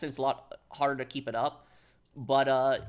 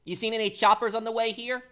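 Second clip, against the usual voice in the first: high, louder impression, held up evenly; put-on game-character accent, pitched up; Phil Bell's accent; 8 semitones higher, 5 dB louder than usual. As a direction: ask it in character, high and loud. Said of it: "that's kind of what Phil sounds like".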